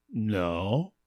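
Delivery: sulking. Acted. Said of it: "I sulked".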